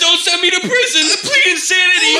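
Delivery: high, fast desperate cartoon voice; panicked monkey plea. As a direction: beg like a cartoon monkey caught out. Monkey begging not to go prison.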